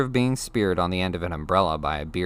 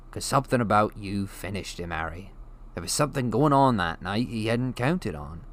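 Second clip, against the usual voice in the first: big gentle giant telling a grim tale; rough West Country giant, hushed awe; Hagrid's voice. Acted. Hagrid explains Voldemort.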